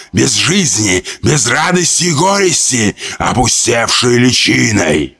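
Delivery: hissing creature. Acted. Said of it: "Безмолвно прошипело существо".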